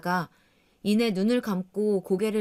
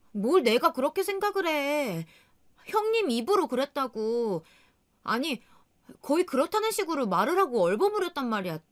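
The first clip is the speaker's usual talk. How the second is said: higher, heated snapping back; angry retort; 6 semitones higher than usual. Acted. Wife losing her temper at her husband, angry retort. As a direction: push back hard, irritated. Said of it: "화가 나서 막 성질을 내게".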